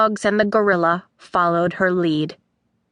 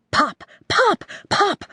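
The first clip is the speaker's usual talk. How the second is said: higher, bouncy pops; lively pop sounds; 10 semitones higher than usual. A narrator's reading. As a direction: pop them out playfully. Narrated fluxing sounds.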